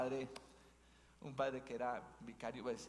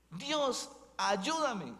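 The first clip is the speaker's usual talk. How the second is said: crying out high and loud to God; pleading shout for help, pitched high; desperate plea; 10 semitones higher, 7 dB louder, much slower than usual. Acted. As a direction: call up into the dark, begging. Climber begs God again.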